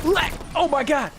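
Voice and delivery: mock streamer exclamation; Lex impression. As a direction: yell it like a hyped streamer. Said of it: "How do I do Lex?".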